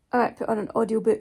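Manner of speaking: words stretched by a yawn. Real, not acted. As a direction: say it mid-yawn, sleepy. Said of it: "That's me yawning".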